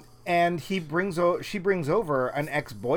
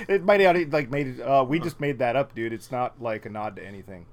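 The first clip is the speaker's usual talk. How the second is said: put-on New Zealand accent. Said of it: "That was my New Zealand accent".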